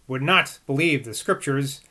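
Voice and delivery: measured book narration; formal read-aloud. A narrator's reading. Reader giving Boswell's view of Rousseau, formal read-aloud. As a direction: read the long sentences out with care.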